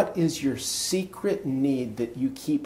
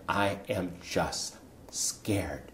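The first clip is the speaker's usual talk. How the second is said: slow, softened confession of fear; slow right down and let it fade soft; hushed fear; 3 semitones lower, 6 dB quieter, much slower than usual. Retold or imitated. Storyteller admitting he was scared, hushed.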